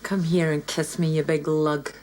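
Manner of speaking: low growly come-on; husky come-on. Acted. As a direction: pull him in with a low growl. Low, loud-ish seductive line.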